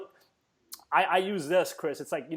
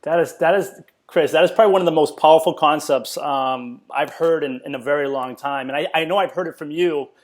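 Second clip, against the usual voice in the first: excited praise; 8 dB louder than usual. Real, not acted. Host raves about guest's concept.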